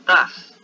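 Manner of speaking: does said loud and high as das; saying does. Shown as a demonstration. Teacher points out the new form to students, loud and high. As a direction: stamp out the word does. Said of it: "le agregamos la E y la S".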